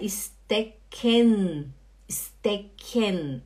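"stecken" with plain s and a full, stressed -ken; spelling pronunciation. Shown as a demonstration. Teacher showing students what stecken is not, spelled-out pronunciation. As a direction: say "stecken" as es-TE-KEN, both syllables drawn out. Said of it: "não é".

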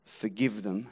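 almost breathe the words; Jesus forgiving from the cross, very low and soft; hushed Jesus on the cross. Acted. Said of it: "Jesus on a cross says".

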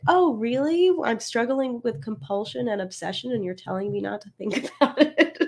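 high, disbelieving retort with a laugh; incredulous. Retold or imitated. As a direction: scoff at the advice. Client's incredulous reply to advice.

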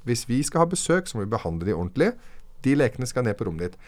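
stern father. Retold or imitated. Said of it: "bare ble jeg liksom streng".

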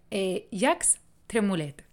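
slow, careful French accent attempt. Shown as a demonstration. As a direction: try a French accent, not quite landing. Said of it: "con mi acento francés y lo voy a hacer súper bien".

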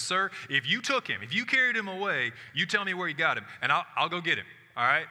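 insist, ready to fight; Mary confronting the gardener, loud and insistent; fierce demand. Acted. Mary's just ready to fight.

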